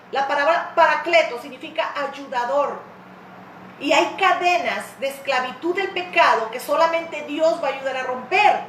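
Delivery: ordinary delivery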